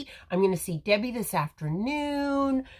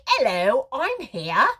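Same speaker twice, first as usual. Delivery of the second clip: bright sing-song "Hello, I'm here"; cheery greeting; 4 semitones higher, 4 dB louder than usual. Shown as a demonstration. Live-stream host demonstrating the greeting she wants, sing-song. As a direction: greet her like an old friend arriving. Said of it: "say it exactly that way".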